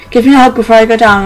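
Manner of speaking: a touch of mild insistence; insisting. A narrator's reading. Mother to her daughter before going downstairs, mildly insistent. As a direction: press for the hug, gently firm. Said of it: "Renee insisted".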